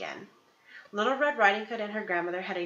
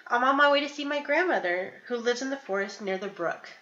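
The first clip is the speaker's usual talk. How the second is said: put-on little girl voice; 4 semitones higher, 3 dB louder than usual. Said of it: "Little Red Riding Hood replied".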